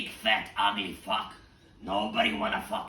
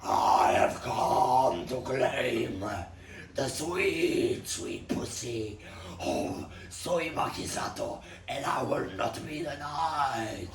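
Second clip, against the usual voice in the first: slow, booming, higher villain voice drawn out; pompous pig warlord; 6 semitones higher, 3 dB louder, slower than usual. Acted. Pig warlord bursting into the brothel, booming slow demand. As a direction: ham up the pig's grand demand.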